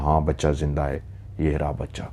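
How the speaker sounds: low, hushed admission; quiet, understated fearful confession; frightened surrender. Acted. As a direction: give in softly, cowed. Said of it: "वो डर गई, उसने हाथ जोड़ लिया".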